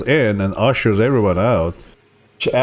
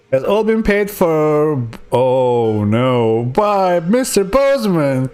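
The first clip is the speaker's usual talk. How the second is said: much higher, prim doctor voice; 6 semitones higher than usual. Acted. Doctor reassuring the patient, in a high prim voice. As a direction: play the doctor, up in the head.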